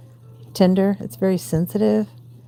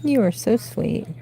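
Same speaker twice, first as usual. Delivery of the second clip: pet talk; 6 semitones higher than usual. Real, not acted. Talking sweetly to her cat.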